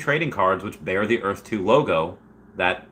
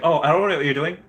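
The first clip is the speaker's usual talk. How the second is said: imitating Wendy's face; 7 semitones higher, faster than usual. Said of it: "Wendy had that face, like".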